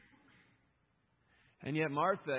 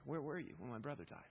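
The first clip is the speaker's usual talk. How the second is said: quiet, sorrowful asking; soft quoted plea; 6 dB quieter than usual. Acted. Martha asking Jesus about her brother, quiet sorrowful plea. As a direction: let the question fall softly.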